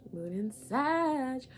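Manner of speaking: slow, mystic announcement; slow dramatic. Acted. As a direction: savour each word, very slowly. Dramatic slow repeat of sign.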